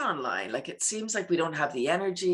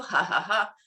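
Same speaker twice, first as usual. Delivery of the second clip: demo giggle. Shown as a demonstration. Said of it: "When we add a giggle".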